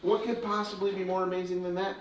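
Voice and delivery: put-on showman patter for children; kids party magician. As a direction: build wonder like a stage magician.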